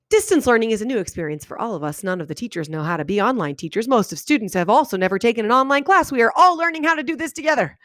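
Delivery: sentences run together with no breaks between them; run-on read without pauses. Shown as a demonstration. Teacher demoing how a run-on sounds in her head, no pauses. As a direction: read it as one breathless run-on, no stops. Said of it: "That's how I read it in my head".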